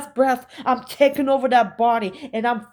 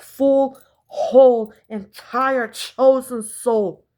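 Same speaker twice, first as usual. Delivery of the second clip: full and whole punched much louder; emphatic oath; 3 semitones higher, 6 dB louder, slower than usual. Real, not acted. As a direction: hammer each word of the oath. Swearing on her soul.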